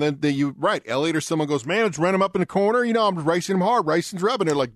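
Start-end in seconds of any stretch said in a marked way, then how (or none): 1.6-4.5 lightly put-on Southern twang, pitched up. Imitating a Southern driver excusing hard racing, light Southern twang. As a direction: imitate a good old boy's twang. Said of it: "Logano needs to talk with a twang".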